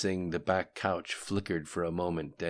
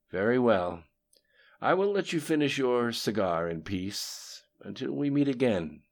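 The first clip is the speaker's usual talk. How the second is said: lightly voiced conspirator, higher and louder; a slightly raised, formal parting voice; Lim Shun; 6 semitones higher, 4 dB louder than usual. A narrator's reading.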